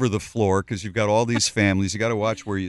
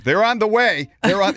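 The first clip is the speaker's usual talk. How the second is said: aggressive; 8 semitones higher, 4 dB louder than usual. Retold or imitated. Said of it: "It's so aggressive".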